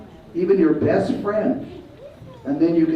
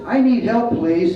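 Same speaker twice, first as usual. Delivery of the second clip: raised, clear model request for help; speaking up; 4 semitones higher, 3 dB louder, slower than usual. Shown as a demonstration. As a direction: speak up so a teacher can hear you. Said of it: "All you have to do is speak up".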